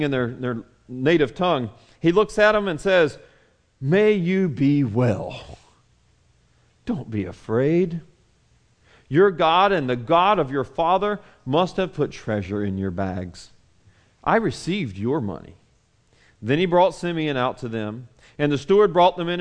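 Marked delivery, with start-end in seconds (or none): 3.8-15.6 calm reassurance. Acted. Steward calming the frightened brothers.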